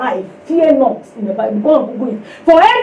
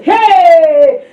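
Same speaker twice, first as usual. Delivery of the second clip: alarmed cry; 4 semitones higher, 5 dB louder than usual. Retold or imitated. Panicking women shout at her.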